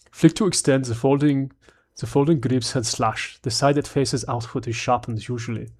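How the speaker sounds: bad mock German accent; badly faked German film-villain accent; Hans Gruber. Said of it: "like, a bad Hans Gruber".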